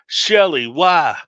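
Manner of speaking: high anguished yell. A narrator's reading. Jameson dragged to the flames, yelling in anguish to Shelley. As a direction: cry out her name in despair. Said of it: "yelling out".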